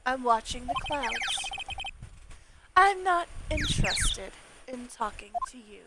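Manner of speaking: lightly voiced cold woman. Voices a cold game character.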